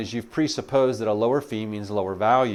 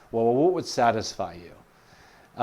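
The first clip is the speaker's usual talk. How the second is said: slow, gentle question; much slower than usual. Shown as a demonstration. Sales coach gently asking the client what would satisfy them, slow. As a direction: ease the client into answering, slowly. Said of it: "you can also ask".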